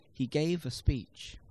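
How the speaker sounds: slow, even beats on "gave" and "speech"; stress-timed rhythm. Shown as a demonstration. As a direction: stretch out "gave a speech" with an unhurried "a". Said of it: "The greater the number of unstressed syllables".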